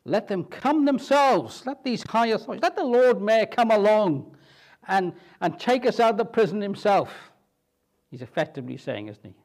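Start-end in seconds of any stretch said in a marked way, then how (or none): 0.0-7.3 indignant Paul demanding. Retold or imitated. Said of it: "says Paul".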